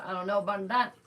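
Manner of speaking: dismissive put-on voice ending on a rise; mock the doubter, lifting "that" at the end; skeptical mock quote, rising. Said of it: "They said".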